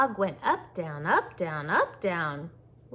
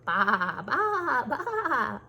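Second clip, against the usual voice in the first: loud bleat breaking into a laugh; laughing sheep bleat; 4 dB louder, much slower than usual. Pretend. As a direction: bleat and giggle at once.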